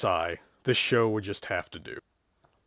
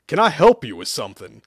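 annoyed; 4 semitones higher, 5 dB louder than usual. Acted. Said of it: "Joe groaned".

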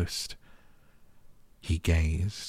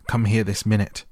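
loud, higher-pitched urgent command; shouted order; 4 semitones higher, 6 dB louder than usual. A narrator's reading. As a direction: shout for him to come at once. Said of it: "he shouted to Dickon".

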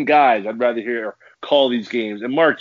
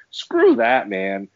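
angry outburst; much slower than usual. Real, not acted. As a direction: spit out Screw that in disgust. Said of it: "own outburst".

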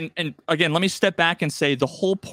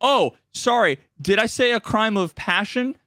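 higher, smug mock correction; sly NPC pun; 3 semitones higher than usual. Quest giver insulting the outfit, hammed-up. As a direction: land the pun with a smirk. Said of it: "And then he goes".

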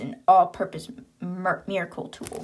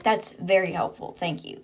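dry, mock-grateful thanks; sarcastic thanks. The speaker thanking Esther for useless advice, lightly sarcastic.

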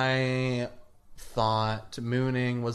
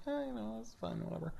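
put-on sulky kid; 10 semitones higher, 12 dB quieter, much faster than usual. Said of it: "And I was like".

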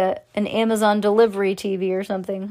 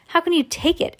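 ordinary delivery, nothing marked

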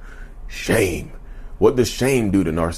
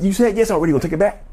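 mock manipulator pressing; 9 semitones higher, much faster than usual.

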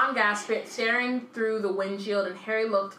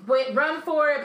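urgent shout; 7 semitones higher, 5 dB louder than usual. Retold or imitated.

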